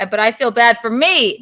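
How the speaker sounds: needling the co-host about past partners, teasing. Pretend. Tease with pretend self-pity. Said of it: "No, I'm teasing".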